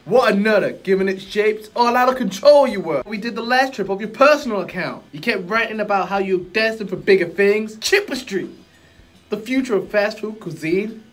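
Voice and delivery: laid-back street-wise genie; cool guru voice. Acted. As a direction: play it smooth and relaxed, a genie with swagger. Acted guru lines.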